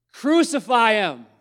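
high, loud shout of the mob; crowd shout. Acted. The crowd cries out to Pilate, shouting. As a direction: yell it as the angry crowd. Crowd's cry read aloud.

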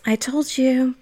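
smug. Retold or imitated. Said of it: "she's so smug".

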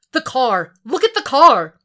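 panicked warning over the phone; urgent shout. Acted. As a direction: make him look now. Lieberman urgently alerting Frank.

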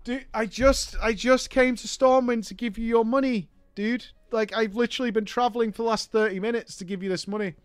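ordinary talk, nothing marked

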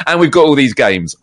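lightly acted excited reveal; mock announcement. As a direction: announce it as happy news. Imagined surprise launch announcement.

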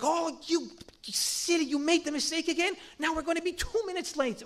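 hammed-up nagging at a driver; mock irritated partner. Spouse scolding the driver for lateness, mock irritation. Snapping at partner while driving.

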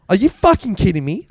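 mock angry yell down the phone; retold yelling. Martin yelling at his mate on the phone. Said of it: "Like, full on yelling at me".

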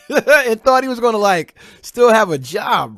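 high, loud laughter over the words; laughing disbelief. Real, not acted.

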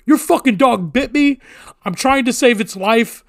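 acted-out angry threat; retold angry outburst. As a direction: fire back indignantly, imitating a fight. Retold shouting match with dog owner.

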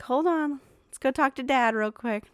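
high, urgent and loud; alarmed excitement. Retold or imitated. Dad retelling rushing to fetch mom, high and urgent. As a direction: hurry off in alarm. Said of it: "And I'm like".

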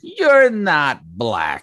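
slow, drawn-out mock Biden voice; hammed-up Biden delivery; Biden impression. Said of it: "just like Joe Biden".

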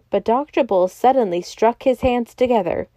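usual speaking voice

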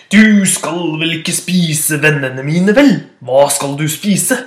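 slow loud wary question; suspicious goat. Acted. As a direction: grill the troll slowly. Goat questions big troll. (langsom mistenksom bukk)

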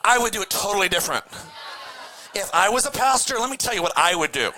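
fast, mocking know-it-all voice; smug know-it-all. Boat critics bragging they would pastor better. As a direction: sneer like an armchair critic. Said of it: "stand in the boat and just go".

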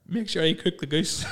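husband sleep-talking to his wife, slow and dreamy; mock sleep talking. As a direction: drag it out like talking in your sleep.

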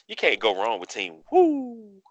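hoarse from yelling all day; rough, parched throat voice. Real, not acted. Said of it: "my voice is a little low and throat's a little parched".

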